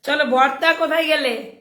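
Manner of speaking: slow, laughter still in the voice; can't stop the giggle yet; still laughing. Real, not acted. Host calls a viewer while still giggling. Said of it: "হাসিটাকে আর control করতে পারলাম না".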